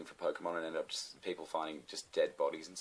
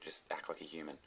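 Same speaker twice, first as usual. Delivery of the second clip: muttered scolding; 10 dB quieter than usual. Retold or imitated. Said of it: "I'm like".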